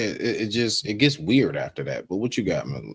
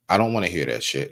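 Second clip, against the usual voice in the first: ordinary talk, nothing marked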